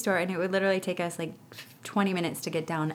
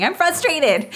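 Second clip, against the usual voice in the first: mock little-boy yell, much higher and louder; imitating a yell; 11 semitones higher, 9 dB louder than usual. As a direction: holler it like a frustrated three-year-old. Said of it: "you just heard him yelling".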